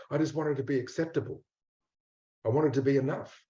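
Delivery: soft, hesitant confession of a hurt inner part; quiet and unsure, owning up bit by bit; voicing the ashamed part. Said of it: "the part that goes".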